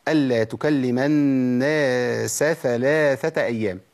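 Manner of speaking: slow recited phrase; ترتيل; Quran recitation. Acted. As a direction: recite steadily with clear letters. Recites verse slowly.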